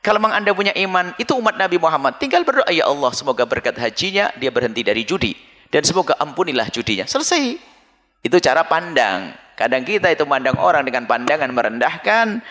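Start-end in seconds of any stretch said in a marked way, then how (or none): 2.7-7.1 gentle prayer. Acted. Voices a quiet prayer.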